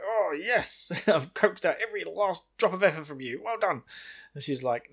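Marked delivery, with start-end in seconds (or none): 0.0-3.8 "Oh, yes" with a lightly voiced, higher, pleased lilt; impressed Amyrlin. Retelling the Amyrlin praising Nynaeve, a touch of an impressed, higher voice. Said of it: "Swain's really impressed".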